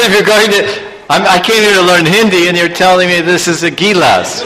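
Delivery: high, laughing retold protest; mock exasperation. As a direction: play up his own baffled complaint. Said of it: "I said".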